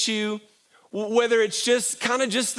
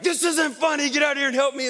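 raised, stern preacher dad; booming preacher voice; 6 semitones higher, faster than usual. Retold or imitated. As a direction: boom it like a preacher. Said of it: "booming preacher voice mode".

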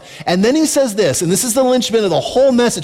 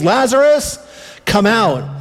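loud call; 3 semitones higher than usual. Retold or imitated. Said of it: "cried out in a loud voice".

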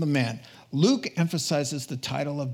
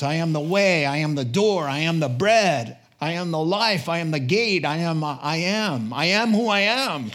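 ringing proclamation; 4 dB louder than usual. Acted. Preacher voicing Jesus' I am sayings.

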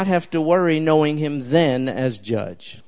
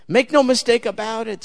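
voicing Jesus; 5 semitones higher, 4 dB louder than usual. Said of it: "says he".

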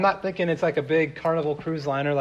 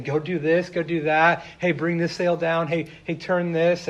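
firm, slightly raised commands to the crew; stern orders; 2 semitones higher, 4 dB louder than usual. Retold or imitated. Fisherman ordering his crew mid-storm, growing stern. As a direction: bark out orders as the storm builds. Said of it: "your voice is starting to get a little bit more stern".

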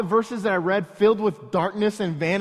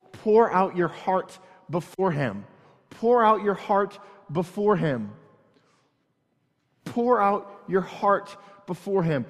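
slow, weighted repeats; slow repetition; slower than usual. Acted. Preacher repeating verse to congregation, slow meditative. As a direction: let each phrase sink in slowly. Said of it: "So read it again".

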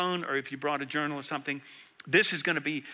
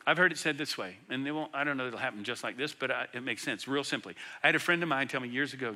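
ordinary delivery

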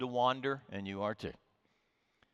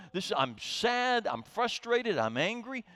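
raised, slow, aching confession; lamenting prayer; 7 semitones higher than usual. Pretend. A psalmist telling God his feelings, raised and aching. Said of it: "where we say".

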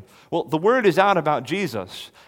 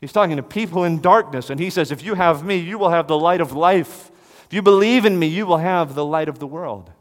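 louder, higher ringing proclamation; proclaiming; 4 semitones higher, 6 dB louder than usual. Acted. Preacher proclaiming Jesus's promise, loud and rising. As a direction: call it out to people in darkness.

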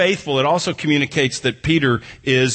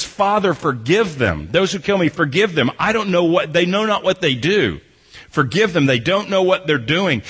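raised, earnest plea to the Father; pleading prayer of Jesus; 4 semitones higher than usual. Acted. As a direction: beg forgiveness for them, lifted up. Jesus praying on the cross.

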